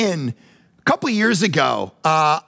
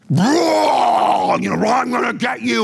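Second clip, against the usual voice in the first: mock monster roar; 4 semitones higher, slower than usual. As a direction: play a cartoon demon. Mocking cartoon Satan.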